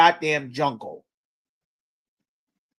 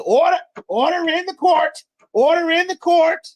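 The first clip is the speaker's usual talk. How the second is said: much higher, hammed-up judge calling order; mock judge; 10 semitones higher than usual. Teacher mocking a judge silencing the grieving family, hammed-up. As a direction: play the judge shutting the family down.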